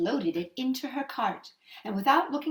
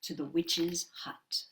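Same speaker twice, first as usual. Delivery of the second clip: slow whisper; ominous hush; 5 semitones lower, 5 dB quieter than usual. A narrator's reading. Narrator arriving at the witch's hut, whispering ominously. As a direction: creep into it as if afraid.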